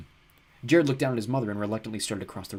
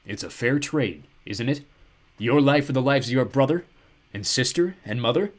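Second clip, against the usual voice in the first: soothing; 3 semitones higher, 6 dB louder than usual. Acted. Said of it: "his voice became soothing".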